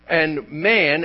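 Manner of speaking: "man" set apart and weighted; stress on man. Shown as a demonstration. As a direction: lean firmly on "man". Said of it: "emphasis on Adam".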